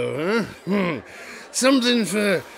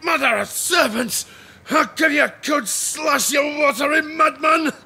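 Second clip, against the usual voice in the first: angry shout; 5 semitones higher than usual. Acted. Fisherman fights sea creature.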